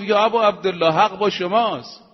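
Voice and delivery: loud, earnest call to the Imam; loud earnest address. Acted. Companion calling out to Imam Husayn, loud and earnest. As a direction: declare it fervently.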